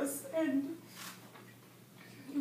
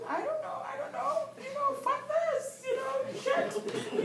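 laughing imitation of friend; 11 semitones higher, 3 dB louder than usual. The speaker imitating the late friend laughing off a fight. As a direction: imitate her friend giggling it out. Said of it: "she would start laughing".

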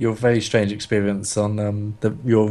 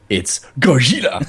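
imitating Japanese accent; 2 semitones higher, 4 dB louder than usual. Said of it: "the first scene where he goes".

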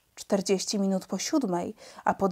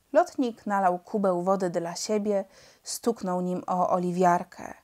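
ordinary delivery, nothing marked

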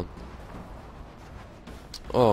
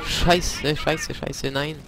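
panicking gamer; 4 semitones higher, much slower than usual. Real, not acted. Sudden danger in fight.

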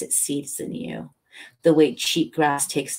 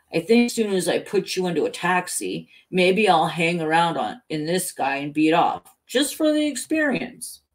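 playful idea, pitch jumping up on the last phrase; Helen in cop's body; 3 semitones higher, 4 dB louder than usual. Acted. Helen musing through the cop, lightly mischievous.

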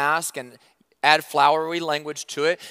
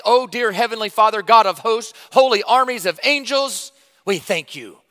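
mock flowery prayer; 4 semitones higher, 4 dB louder than usual. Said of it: "demonstrative and emotional".

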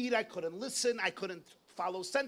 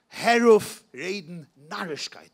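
louder dismissive scolding; scolding father; 10 dB louder than usual. Retold or imitated. Father dismissing his son's warning, loud scolding. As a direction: slap the idea down as rubbish.

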